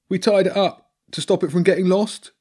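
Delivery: high, loud rat making excuses; Bobby. Acted. Rat explains tied-up dog to girl, high defensive voice. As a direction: plead innocence in a squeaky-high rat voice.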